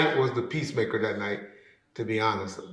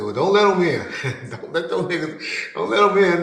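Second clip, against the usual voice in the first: laughing order; 5 semitones higher than usual. Retold or imitated. Telling security, laughing.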